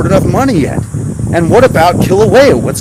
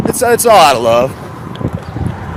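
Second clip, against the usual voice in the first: sarcastic drawl; 3 semitones lower, 3 dB quieter, much slower than usual. Pretend. Sarcasm about the powers that be.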